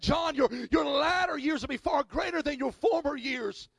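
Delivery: slow, emphatic pronouncement, called out loud; voice of God. Retold or imitated. Pastor retelling God's promise to him, solemn and loud. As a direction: declare it like a promise from above. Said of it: "and God said".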